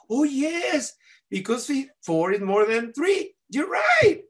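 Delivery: put-on high, eager kid agreeing; excited agreement. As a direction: pitch climbing with glee. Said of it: "I'm so happy".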